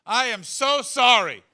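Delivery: high, loud, desperate pleading; pleading apology. Retold or imitated. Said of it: "So I just went".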